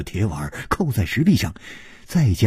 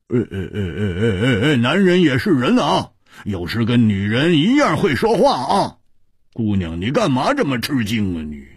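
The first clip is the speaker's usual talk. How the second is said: amused teasing; 4 semitones higher than usual. A narrator's reading. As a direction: tease the startled girl. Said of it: "蝴蝶花失笑说". (忍不住失笑调侃)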